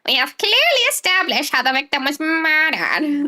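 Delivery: put-on German accent, judge voice; stern German judge accent. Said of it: "it is exactly the accent".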